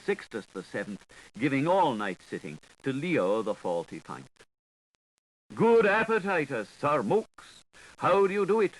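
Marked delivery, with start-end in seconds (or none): 5.5-8.7 high, louder little cheep of a voice; a bright squeaky greeting, pitched well up; cheeping Gripes. A narrator's reading. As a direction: chirp it up high like a small fussy creature. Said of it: "cheeped the Gripes".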